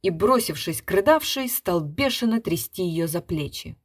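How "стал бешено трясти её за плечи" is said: ordinary delivery, nothing marked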